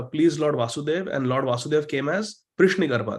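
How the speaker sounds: slow, measured reading to a class; deliberate teaching recitation with spaced phrases; scripture read aloud. Real, not acted. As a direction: read the sacred text out phrase by phrase. Reads English commentary to the class.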